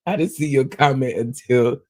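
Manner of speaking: real laugh breaking up the sentence; start, crack up, then push on through it; laughing apology. Real, not acted. Host swearing she wasn't shading a viewer, laughing.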